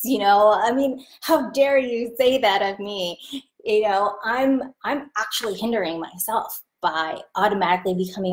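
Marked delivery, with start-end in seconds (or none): 1.2-3.2 mock indignation. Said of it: "furious and angry".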